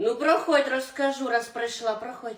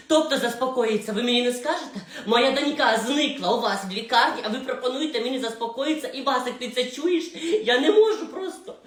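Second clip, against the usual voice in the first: louder, rising to a laughing break; outraged mother; 4 dB louder than usual. Acted. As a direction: fume at the staff.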